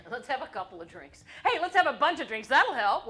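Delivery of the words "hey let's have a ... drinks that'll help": mock cheer. Jokey cheer about drinking.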